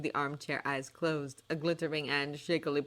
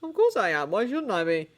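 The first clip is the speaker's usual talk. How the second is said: puzzled; 4 semitones higher, 6 dB louder than usual. Acted. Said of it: "sounding puzzled".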